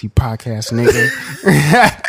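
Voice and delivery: slow, loud, laughing overseer voice; slow hammed-up overseer jeer; mock slave master. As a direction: drag out the insult like a cartoon overseer.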